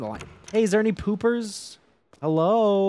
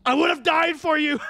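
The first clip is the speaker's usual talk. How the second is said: higher, louder mock-tragic cry; hammed-up heartbreak; 9 semitones higher, 4 dB louder than usual. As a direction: wail it like a soap opera lover. Hammed-up heartbreak at fleeing woman.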